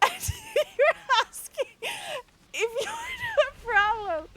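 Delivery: can barely get it out for laughing; laughing through words. Real, not acted. Streamer to chat, helpless high-pitched laughing. Cracking up at absurd post.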